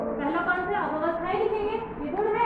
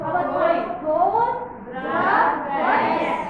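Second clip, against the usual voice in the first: loud; 2 semitones lower, 6 dB louder, much slower than usual. Real, not acted. Class chants answers.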